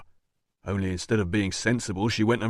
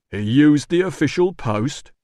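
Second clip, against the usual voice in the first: louder, slow incredulous question; shocked question; 4 semitones higher, 5 dB louder, slower than usual. Acted. Doorman gapes at his boss's blunder, loud and slow. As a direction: disbelief at his boss.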